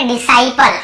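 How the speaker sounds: डिसाइपल slowly with an S sound, no K; model pronunciation. Shown as a demonstration. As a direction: say डिसाइपल as di-sai-pal, C silent. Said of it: "ऐसे पढ़े".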